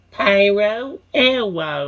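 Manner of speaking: put-on childish voice with the first word drawn out. Showing the voice given to the character Pyro, in a childish voice. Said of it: "it had like a childish voice".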